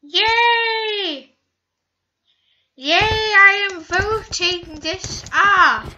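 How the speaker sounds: high, loud, drawn-out cheering; gleeful high-pitched whoop; excited cheer. Real, not acted. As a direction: cheer it out slowly and loudly. Cheering in the game.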